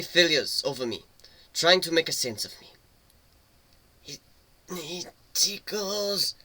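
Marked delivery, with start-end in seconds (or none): 4.0-6.3 suppressed giggle. A narrator's reading. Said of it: "I tried to whisper and hold it in".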